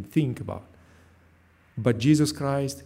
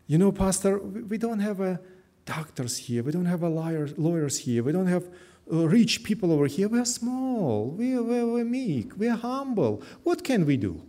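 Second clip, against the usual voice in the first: raised pitch, small and pleading; quoting humble members; 5 semitones higher than usual. Retold or imitated. Pastor voicing church members who feel too small. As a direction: voice the members' worried doubts higher. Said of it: "some of your brethren share with me".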